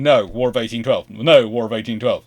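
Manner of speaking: loud, emphatic repeated refusal; mock stubborn refusal. Americans turning down the British, mock stubborn. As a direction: play a blunt, immovable negotiator.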